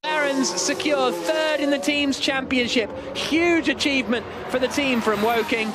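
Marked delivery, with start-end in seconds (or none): 0.0-2.9 rising, quick excitement as Ocon goes for the pass; excited race call. Real, not acted. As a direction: call the last-lap overtake, voice lifting higher. Final lap overtake called live.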